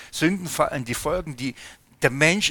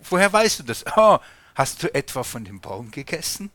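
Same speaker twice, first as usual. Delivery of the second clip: God questioning; 4 dB louder than usual. Acted. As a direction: press him for the answer. Preacher voices God questioning.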